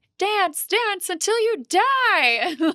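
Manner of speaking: bad, very high witch voice, "die" stretched out. Recalling a scene from Hocus Pocus: terrible Winifred impression. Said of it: "that was a terrible impression of it".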